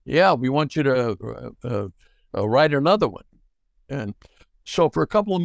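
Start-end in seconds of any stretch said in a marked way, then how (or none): 0.0-3.2 lightly put-on alter-ego voice; a hint of a different man talking; barely shifted disguise voice; disguised voice. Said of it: "I kinda talked like this".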